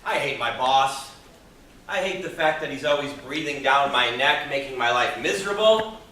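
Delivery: grumbling complaint. Acted. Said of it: "You ever find yourself saying things like this".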